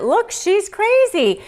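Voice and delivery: high, slow put-on accusing voice; mock accusing. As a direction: play the manipulative accuser, slowly. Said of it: "went right into court and used it".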